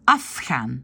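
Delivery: Afghan said with devoiced R; Dutch pronunciation. Shown as a demonstration. Teacher models Afghan for learners, devoiced. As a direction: demo the word Afghan slowly. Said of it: "C'est une consonne sourde".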